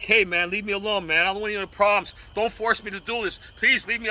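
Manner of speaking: de-escalate, begging the guy to walk away; a right-way demo, calm pleading instead of threats; pleading to back off. Pretend. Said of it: "But if you're like".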